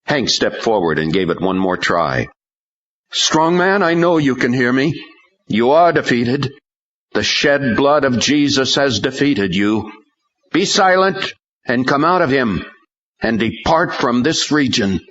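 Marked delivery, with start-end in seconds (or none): 3.1-15.0 high, forceful exorcist's command; commanding rebuke. A narrator's reading. Praying man rebukes the demon, commanding high voice. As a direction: cast the spirit out with authority.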